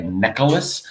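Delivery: necklace with an extra vowel, neck-uh-lace; mispronounced necklace. Retold or imitated. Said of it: "they add an extra vowel".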